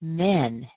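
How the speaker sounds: "men" with a closed eh vowel, mouth not open enough; wrong vowel men. Shown as a demonstration. Teacher showing the mistake of a closed mouth. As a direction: show the too-closed "men". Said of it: "you might say".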